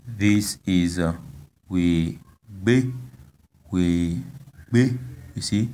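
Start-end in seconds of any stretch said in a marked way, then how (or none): 1.7-5.0 we be in two parts, be pitched higher; high final tone. Shown as a demonstration. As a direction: model we be, lifting the last vowel. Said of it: "tone is on the last vowel".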